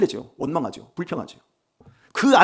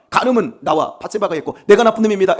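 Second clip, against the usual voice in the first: loud, high pleading prayer with a hint of tears; desperate weeping plea; 6 semitones higher, 8 dB louder than usual. David begging God to spare his son, loud acted plea. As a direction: beg God for the child's life, lightly acted. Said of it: "막 간절하게 울면서".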